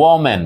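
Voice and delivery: ওমেন said as the singular woman, stressing the first syllable; singular pronunciation. Shown as a demonstration. Teacher to students modelling the singular ওমেন. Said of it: "প্রথম এটার উচ্চারণ হচ্ছে".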